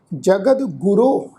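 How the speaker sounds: slow, measured two-word phrase; scripture recitation. Shown as a demonstration. Teacher returns to the verse, slow recitation. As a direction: recite it slowly with held vowels. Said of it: "ਇਸ ਸ਼ਬਦ ਦਾ ਉਚਾਰਨ ਕਰਾਂਗੇ".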